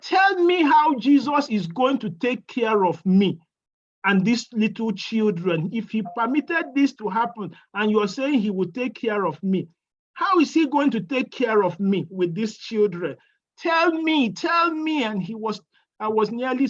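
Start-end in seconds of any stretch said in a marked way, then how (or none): 0.0-13.2 loud, pleading challenge rising to a cry; angry demand. Retold or imitated. Widow confronting the pastor, loud angry demand. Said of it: "I nearly strangled him that day". 13.6-15.0 higher, louder pleading cry; desperate demand. Retold or imitated. Widow grabbing pastor's tie, loud desperate plea.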